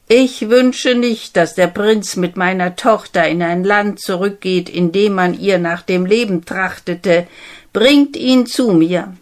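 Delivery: a displeased father laying down the law; lightly voiced stern king.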